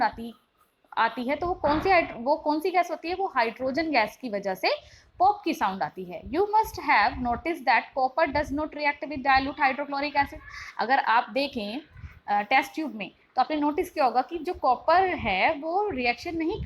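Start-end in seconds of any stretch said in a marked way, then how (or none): 6.2-10.4 very slow, careful textbook reading; slow classroom read-aloud. Shown as a demonstration. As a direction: spell out the question for students. Reads textbook passage aloud.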